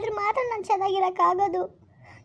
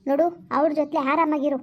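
lower, heavy, disgusted reproach; bitter heartbreak; 4 semitones lower than usual. Acted. Betrayed girlfriend telling Arun he has changed, low and bitter. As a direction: let the betrayal sink the voice down.

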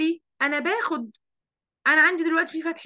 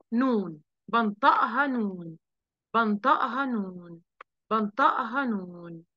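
slow, careful repetition; a teacher drilling the nun sound slowly; slow repeated drill; 4 semitones lower, slower than usual. Shown as a demonstration. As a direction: drill it slowly three times. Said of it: "teaching the nun sound".

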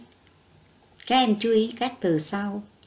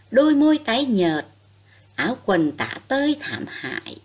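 gentle compassionate reading. A narrator's reading. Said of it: "Bài này đọc với giọng nhẹ nhàng, thương cảm".

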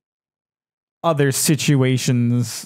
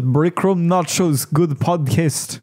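slow mock Russian accent; lightly put-on Russian accent; 2 semitones higher, slower than usual. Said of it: "My, my Russian accent wasn't as bad".

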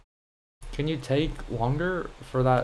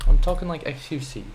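the line "I'm talking like X U C" said louder in a silly put-on accent; hammed-up silly accent, pushed out loud; mock silly accent; 2 semitones higher, 5 dB louder than usual. Shown as a demonstration. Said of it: "Either I do this silly, silly accent".

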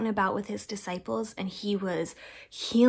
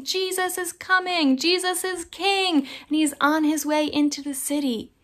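celebrating; 5 semitones higher than usual. Acted.

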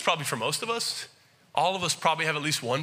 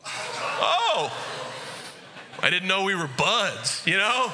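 mock surprise; slower than usual. To the cashier who called him bud, mock surprised oh. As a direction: pretend to be startled by a stranger.

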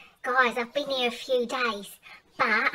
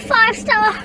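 higher, louder snooty Mad Mel complaining about the holiday; 10 semitones higher, 5 dB louder than usual. Acted. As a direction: play the stuck-up runaway sneering at the cheap holiday. Mad Mel character monologue.

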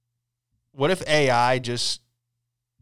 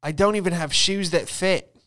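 whiny prisoner; 4 semitones higher than usual. Retold or imitated. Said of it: "she said".

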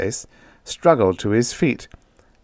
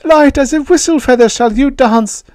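very high, loud creature voice; high-pitched alien promising wonders; coaxing alien; 9 dB louder than usual. A narrator's reading. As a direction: coax in a piercingly high alien voice. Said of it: "Yith whispered".

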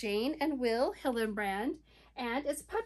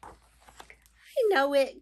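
grinning; 6 dB louder, much slower than usual. Acted. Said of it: "grinned Turtle Turtle".

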